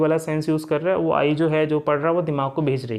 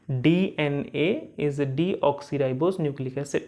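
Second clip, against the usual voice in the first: very slow, each word drawn out; slow line-by-line reading; 2 semitones lower, much slower than usual. Shown as a demonstration. Teacher reading line by line while touching the words, slowly. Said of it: "मैं line to line चाह रहा हूँ".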